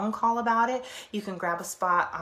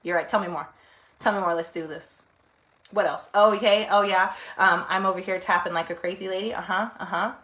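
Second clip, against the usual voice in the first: mock agreeing; 5 dB louder than usual. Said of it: "be like".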